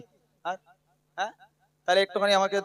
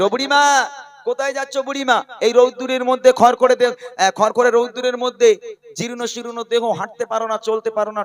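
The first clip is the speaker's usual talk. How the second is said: higher-pitched storyteller's voice for a stranger; concerned passer-by calling; 6 semitones higher than usual. Retold or imitated. Man meets old woman walking in fierce sun, calling out high-pitched. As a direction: call out in a raised pitch to an old traveller.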